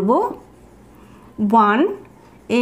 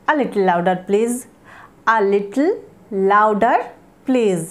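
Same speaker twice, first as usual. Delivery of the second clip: slow model phrase; 4 semitones lower, much slower than usual. Shown as a demonstration. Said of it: "তখন আমরা বলতে চাইছি".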